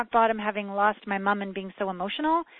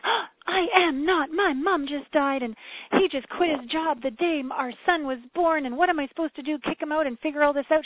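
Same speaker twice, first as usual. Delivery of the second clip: tearful protest; 6 semitones higher than usual. Retold or imitated. Defending herself to the crone.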